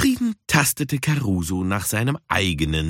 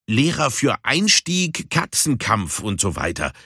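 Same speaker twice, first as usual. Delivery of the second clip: curt; 2 semitones higher than usual. Acted. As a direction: keep it short and dismissive. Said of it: "erklärte Puma knapp". (knapp erklärend)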